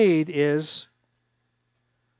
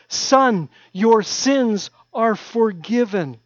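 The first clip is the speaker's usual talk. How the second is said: slow tender declaration; 4 semitones higher, 4 dB louder, much slower than usual. Acted. Repeats Jesus' words, slower.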